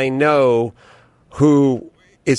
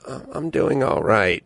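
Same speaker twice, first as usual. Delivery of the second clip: quieter, lower, deflated; tepid reply; 4 semitones lower, 4 dB quieter than usual. Retold or imitated. Mom's tepid phone answer, quiet and deflated. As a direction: let it sag with no energy. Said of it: "I'm so used to the tepid".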